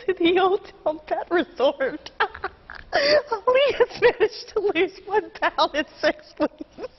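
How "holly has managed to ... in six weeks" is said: slowed by giggles; struggling to keep a straight face; trying not to laugh. Real, not acted. Anchor laughing through cat story.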